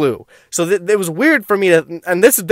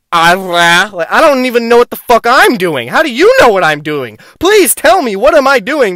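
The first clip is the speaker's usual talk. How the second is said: higher and louder, pleading in a retold panic; panicked plea; 3 semitones higher, 4 dB louder than usual. On acid he begs his friend, a raised, hammed-up panic. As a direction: climb up on please, frantic but half-hammed.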